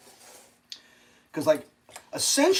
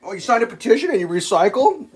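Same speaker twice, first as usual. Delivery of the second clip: high, louder sneering question; mocking sarcasm; 10 semitones higher, 8 dB louder than usual. Show's people scoffing at petitions, high sneer. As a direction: scoff at their petty efforts. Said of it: "mocking quote from the show".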